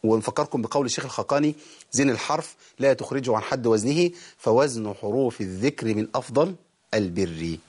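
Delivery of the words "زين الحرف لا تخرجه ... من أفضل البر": measured reading slowing and dropping low; recited verse. Shown as a demonstration. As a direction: recite the verse slowly, settling down at the end.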